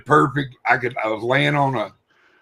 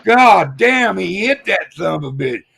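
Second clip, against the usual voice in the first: imitating an excited boy, higher pitched; excited kid; 7 semitones higher, 4 dB louder than usual. Rancher's boy exclaims over the hunter's long shot, excited. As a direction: blurt it like an amazed kid.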